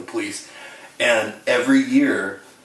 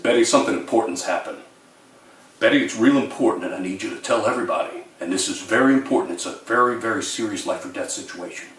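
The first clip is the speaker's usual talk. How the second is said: mock police voice; faster than usual. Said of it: "I could imitate this really deep voice".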